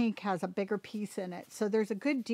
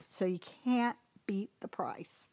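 whisper; 2 semitones lower, 6 dB quieter than usual. Real, not acted. Whispered sales aside.

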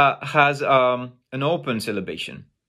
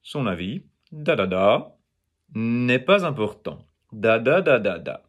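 "son avis" and "da, da, da" in even syllables, last longer; French melody; 3 semitones lower than usual. Shown as a demonstration. Teacher contrasting French intonation, even beats with long endings. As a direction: keep "n'est pas important" even, lengthening the final syllable. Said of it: "it's not that way".

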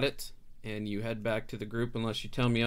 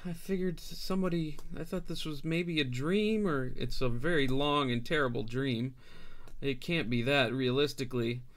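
frightened refugee mother; 3 semitones higher than usual. Acted. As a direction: babble it out, voice pitched up and shaky. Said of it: "and she says".

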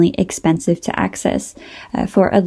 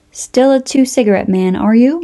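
laughing; 5 semitones higher than usual. Acted. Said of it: "Murad laughed".

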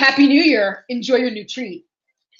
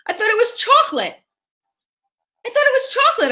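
high whining complaint, climbing; disappointed whine; 11 semitones higher than usual. Real, not acted. Complaining to viewers about the candy, a rising whine. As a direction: whine it higher each time.

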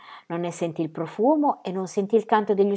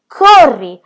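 very loud, higher yell; screamed command; 4 semitones higher, 13 dB louder than usual. Acted. Ronia screaming at Birk to run, loud yell. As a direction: scream it at him. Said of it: "urlò Ronia".

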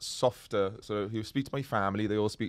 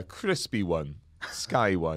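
Welsh-accented voiceover read, lower than usual; painfully Welsh; 4 semitones lower, much slower than usual. Shown as a demonstration. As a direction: deliver an ad tag in strong Welsh. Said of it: "I am painfully Welsh".

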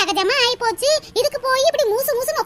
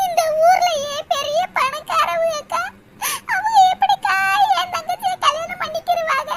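crying complaint; 5 semitones higher than usual. Acted. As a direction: sob out your despair to the neighbour. Sister cries to neighbours. (உயர்ந்த குரலில் அழுகை)

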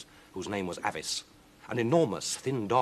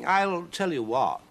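slow, high, drawn-out proposal; scheming cat; 10 semitones higher, 5 dB louder, slower than usual. Acted. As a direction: draw out the offer, loud and slow. Victor proposes a bargain.

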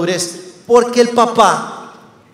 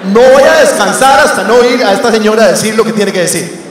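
louder, swearing himself to the challenge; mock determined outburst; 4 dB louder than usual. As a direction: vow it like a personal crusade. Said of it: "Y yo".

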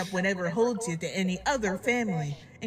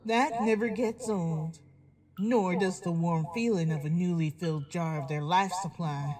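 cold; 3 semitones lower than usual. Acted. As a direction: savour it with icy calm. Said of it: "Applejack said coldly".

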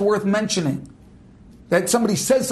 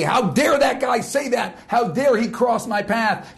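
indignant ego; 3 semitones higher, slower than usual. Retold or imitated. Voicing an angry ego.

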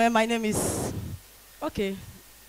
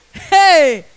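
shout; 2 semitones higher, 7 dB louder than usual. Acted. Shouting back again.

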